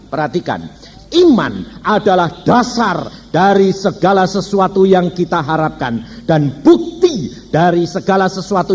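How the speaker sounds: measured preaching with punched key words; emphatic scripture proclamation. Real, not acted. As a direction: declare the verse to the congregation, stressing the key words.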